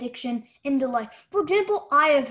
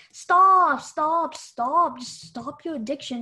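mock parent scolding; 3 semitones higher, much slower than usual. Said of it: "parents just say".

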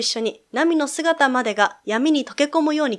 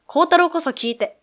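crying out; 5 semitones higher than usual. Acted. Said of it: "ナミは叫んだ".

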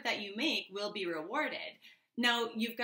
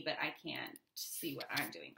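muttered aside; 7 semitones lower, 8 dB quieter than usual. Real, not acted. Fixing camera, muttering aside.

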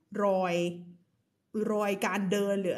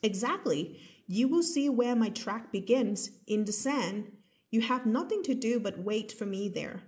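slow story reading; much slower than usual. A narrator's reading. Reads next passage slowly.

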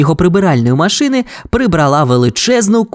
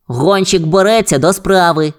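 slightly put-on police pup voice, higher; Гонщик; 4 semitones higher than usual. A narrator's reading. Police pup takes the job, higher reporting voice. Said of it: "рапортувало поліцейське щеня".

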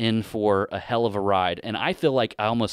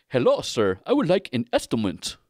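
lightly imitated Indian accent, politely asking; a hint of an Indian accent, polite customer; 3 semitones higher than usual. Customer walks in asking for an estimate, light Indian accent. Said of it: "just based on the accent there".

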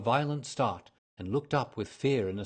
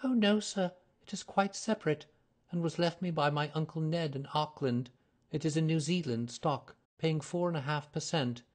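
put-on higher, earnest young woman's voice; nervous young lady; 6 semitones higher than usual. A narrator's reading. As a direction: voice her as an eager, flustered client. Mary Sutherland voiced by narrator.

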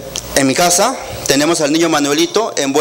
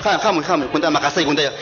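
put-on a drunk at the fiesta picking a fight, mumbling and taunting; drunk troublemaker; 3 semitones higher, 4 dB quieter than usual. Rowdy guest picking a fight at the sierra fiesta, mock drunken taunting. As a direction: slur and goad him to hit you.

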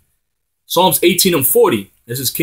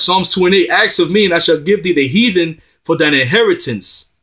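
raised, driving proclamation of the psalm; preaching scripture; 3 semitones higher than usual. Acted. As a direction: proclaim it as a promise of victory.

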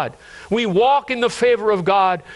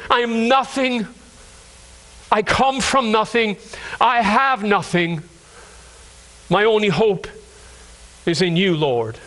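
earnest humility before God; humble prayer. Acted. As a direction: lay each phrase down humbly, with pauses. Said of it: "That's a prayer of humility".

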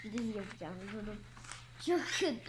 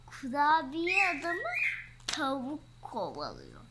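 higher, louder and quick with excitement; excited; 6 semitones higher, 4 dB louder than usual. Real, not acted. Little girl spotting the chicken in the book, excited. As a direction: blurt it out, thrilled by the picture. Child excited about picture.

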